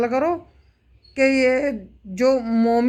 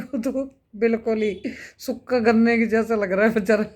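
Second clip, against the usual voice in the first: laughing. Real, not acted. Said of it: "मेरे को तो बहुत हंसी आ रही है".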